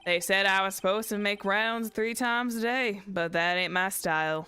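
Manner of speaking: easygoing Southern cowboy witness; Southern twang. Acted. Witness testifying to the court, Southern twang. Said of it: "I go into the southern twang".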